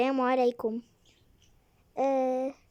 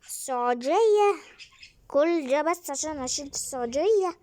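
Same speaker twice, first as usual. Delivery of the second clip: shocked; 4 semitones higher, 3 dB louder than usual. Acted. Shocked the guest is Saudi.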